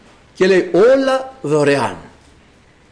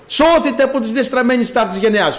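mildly raised urgent proclamation; calling out; 3 semitones higher than usual. Acted. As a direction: proclaim it as a warning call. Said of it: "φωνάζει η σοφία". (προειδοποιητικό διαλάλημα)

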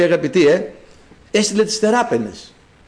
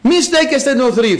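higher-pitched exhorting call; 5 semitones higher, 3 dB louder than usual. Acted. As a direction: rouse the congregation like a herald. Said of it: "φωνάζει η σοφία". (παρακινητικό κάλεσμα, σαν φωνή κήρυκα)

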